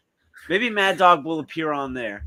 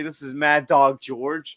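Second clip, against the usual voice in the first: Mad Dog intro; 3 semitones lower, 4 dB louder, slower than usual. Retold or imitated. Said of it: "I should rebrand and say".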